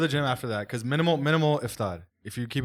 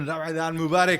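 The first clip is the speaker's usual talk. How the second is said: put-on Arabic accent; 4 semitones higher than usual. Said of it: "Why are you speaking in an Arabic accent?".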